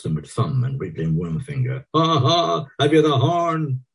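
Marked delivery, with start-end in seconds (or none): 1.9-3.8 put-on high jeering boy voice; mocking jeer. A narrator's reading. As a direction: taunt them, voice up high. Boots mocking the barmaids.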